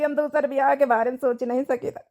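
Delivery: words breaking with tears; crying. Acted. Widower to his elders refusing a second marriage, crying. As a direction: fight back tears as you refuse.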